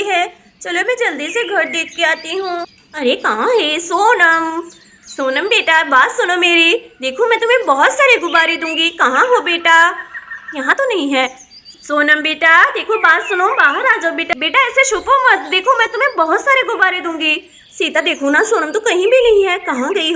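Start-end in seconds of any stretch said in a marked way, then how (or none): 2.9-9.8 coaxing call. Acted. Mother coaxes hiding daughter with balloons, loud call. 11.8-17.3 coaxing call. Acted. Mother coaxes hiding daughter with balloons, loud call.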